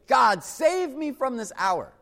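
a mild crack in the voice, pleading; anguished plea. Shown as a demonstration. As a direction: beg God with an exclamation point. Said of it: "With an exclamation point ... a crack in our voice".

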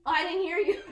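high loud excuse breaking into laughter; hammed-up child's fake innocence; mock innocent kid laughing. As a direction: play the innocent child, giggling.

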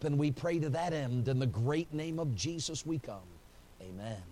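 calm pulpit prayer, fading at the end. Real, not acted. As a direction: pray to the Father, earnest. Closing prayer.

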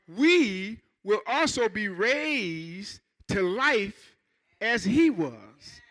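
slow, measured verse reading; slow pulpit reading of scripture. Acted. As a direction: read the verse slowly, weighing it.

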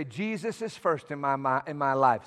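low, soft aside; private prayer. Shown as a demonstration. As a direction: say it low, as if praying in your head. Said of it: "in your mind every day, when you're praying".

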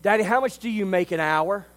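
put-on a shy child asking his dad; little boy asking. Little boy voiced in story.

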